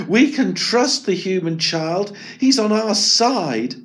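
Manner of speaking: Miko insisting. Acted. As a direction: reassure the others. Miko defending Eric.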